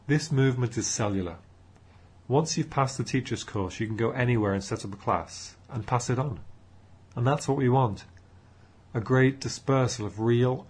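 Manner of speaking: loud, projecting talk to an audience; speaker addressing a room. Acted. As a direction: address the room like a keen young group leader.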